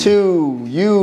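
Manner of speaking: Baltimore-style vowels on two and you; Baltimore accent. Shown as a demonstration. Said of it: "Y'all accent is crazy".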